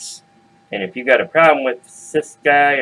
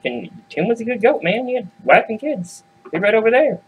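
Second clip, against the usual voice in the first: high, pleading goat voice raised well up; 10 semitones higher than usual. Retold or imitated. Goat begging the billy goats for help, high and pleading. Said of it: "these goats plead with them".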